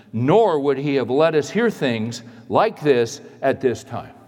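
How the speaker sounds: firm reasoning, each point driven home; rational, logical reply. Acted. Preacher reads the wife answering her panicked husband, reasoned and firm. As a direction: argue it step by step, emphatically. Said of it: "watch the logic and watch the thinking".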